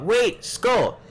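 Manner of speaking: calling out. Acted. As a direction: shout a warning to stop him. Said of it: "you hear Kara call out".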